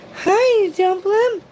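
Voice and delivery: 3 squeal hi to a favourite viewer; 4 gushing greeting to a chat regular. Real, not acted.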